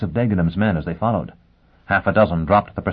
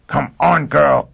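urging call; 7 semitones higher, 5 dB louder, slower than usual. Acted. Foyle urging her.

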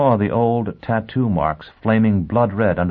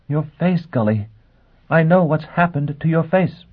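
agitated; 9 semitones higher than usual. Acted. Gisbella shocked at his face.

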